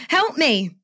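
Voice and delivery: high, pleading cry of help me; calling for help. Acted. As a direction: beg the driver to stop. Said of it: "made an instant decision to call out".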